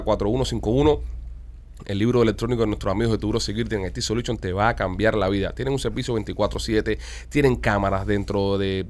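punchy radio sponsor pitch; live on-air commercial voice; ad read. Acted. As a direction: sell the product to truckers. Reads sponsor ads on air.

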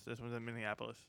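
low, very quiet mock reply; imitated curt answer. Repeats the imitated interview answer.

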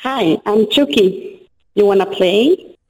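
very slow, deliberate creepy doll line; each word like a knife slowly going in; Chucky voice. Acted. Reading Chucky for the fake audition, slow and creepy. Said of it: "Como si me estuviera metiendo el cuchillo".

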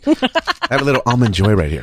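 talking with a mouth full of chocolate; chewing while talking. Real, not acted. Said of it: "I'm sorry, I'm eating right now".

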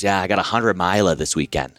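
put-on thick Boston accent, lightly done; a hint of a Boston runner. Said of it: "he's got this thick Boston accent".

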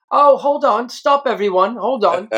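a physio ribbing the new American, high mocking call; mocking teammate. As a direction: announce it to everyone like a teasing physio. Physio mocking him to the team.

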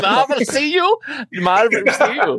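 put-on high, laughing German accent. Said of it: "Say, say it in a German accent".

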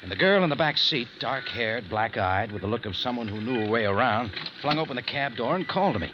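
hardboiled first-person narration; noir detective. A narrator's reading. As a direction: tell it like a tough private eye looking back.

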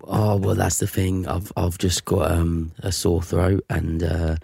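slow, halting mock-Cockney excuse; Cockney sick caller. Employee explains his sore throat to boss, slow mild Cockney. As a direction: explain your illness haltingly, faintly Cockney. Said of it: "got this Phil Mitchell Cockney accent".

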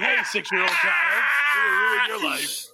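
mock scolding voice.

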